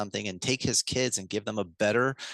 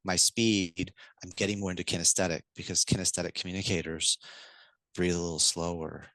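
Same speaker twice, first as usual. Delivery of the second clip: slower kinesthetic voice; 4 semitones lower than usual. Shown as a demonstration. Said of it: "And just to hear my tone, my speed".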